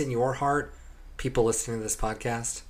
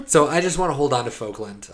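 laughing; 6 dB louder than usual. Real, not acted. Joking insistence, laughing.

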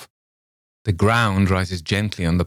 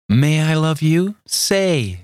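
entreated; 9 semitones higher, slower than usual. A narrator's reading. Luli begging Campbell for love, high pleading voice. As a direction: beg him to love her. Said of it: "she entreated".

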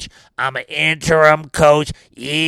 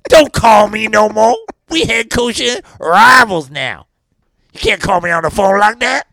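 scolding; 5 semitones higher, 4 dB louder than usual. Retold or imitated. Telling off rival coach.

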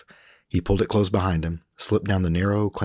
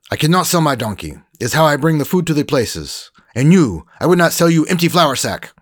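put-on higher, louder heated old cook; old cook Gavino, indignant; 10 semitones higher, 8 dB louder than usual. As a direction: scold the Frenchman as the cook. Gavino voiced.

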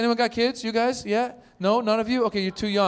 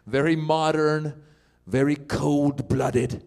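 slow and deliberate; much slower than usual. Acted. Mocking sleep training.

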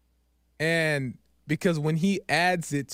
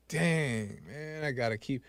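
muttered dang; 2 semitones lower, 7 dB quieter than usual. Retold or imitated. Grudging acceptance.

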